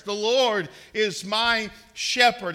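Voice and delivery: slow, ringing declaration with a heavy "Lord"; confident declaration. Shown as a demonstration. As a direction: proclaim "The Lord is my shepherd" with full assurance, "Lord" heavy and falling. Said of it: "say it with confidence and assurance".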